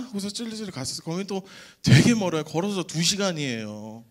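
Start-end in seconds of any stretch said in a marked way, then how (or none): none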